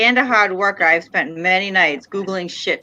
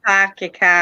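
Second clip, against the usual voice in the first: Boston accent, imitated. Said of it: "We don't say".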